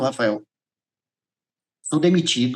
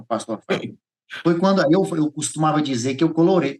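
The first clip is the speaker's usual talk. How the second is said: ordinary talk, nothing marked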